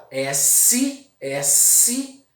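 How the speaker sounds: S with the tongue poking out; "S" lisped like TH. Shown as a demonstration. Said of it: "com essa língua meio pra fora".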